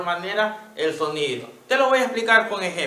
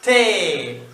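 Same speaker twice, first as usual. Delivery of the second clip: "Elefante" drawn out slowly; 6 dB louder, slower than usual. Shown as a demonstration. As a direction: stretch "Elefante" for a child to hear each sound. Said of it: "el secreto es decirlo despacito". ("Elefante" dicho despacito)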